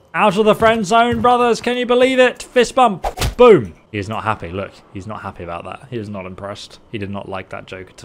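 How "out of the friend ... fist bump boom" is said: high, loud victory cheer; gleeful celebration. Pretend. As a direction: crow triumphantly to your battle brothers. Celebrates getting out of friend zone.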